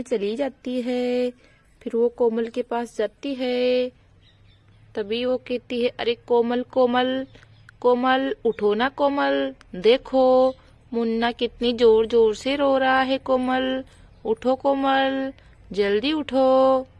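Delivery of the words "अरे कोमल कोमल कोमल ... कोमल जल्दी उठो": louder, urgent calling out a name; calling to wake up. Acted. Sheela calling sleeping Komal awake, louder urgent calling. Waking Komal for crying baby.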